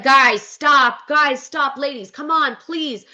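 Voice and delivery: high pleading, starting loud and fading; lightly acted frustrated plea; mock frustration. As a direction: imitate an exasperated host begging for order. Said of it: "getting more and more frustrated".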